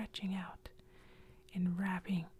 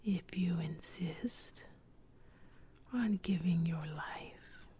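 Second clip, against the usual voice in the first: lightly voiced accusing ghost. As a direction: draw out the accusation like something dead. Ghost accepts the offer.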